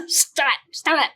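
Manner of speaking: giggly self-scolding. Real, not acted.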